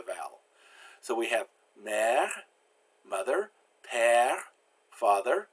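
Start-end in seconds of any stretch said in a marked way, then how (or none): 1.8-2.3 mère with the vowel of egg, French r; French mère, steady open eh without a glide. Shown as a demonstration. Teacher giving an example word, open eh. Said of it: "pronounced like eh". 3.9-4.4 père with the vowel of egg, French r; French père, steady open eh without a glide. Shown as a demonstration. Teacher giving an example word, open eh. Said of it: "pronounced like eh".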